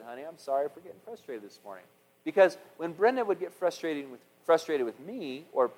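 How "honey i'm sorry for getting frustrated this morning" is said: gentle apology. Retold or imitated. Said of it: "afterwards I said".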